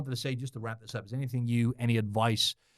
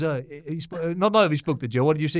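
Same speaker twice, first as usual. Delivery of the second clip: imitating Ian; 5 semitones higher, 6 dB louder than usual. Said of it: "He goes".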